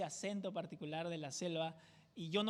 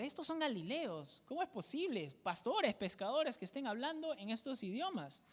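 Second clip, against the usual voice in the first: amazed onlookers; 5 semitones higher, 3 dB quieter than usual. Retold or imitated. Crowd astonished at Galileans' languages.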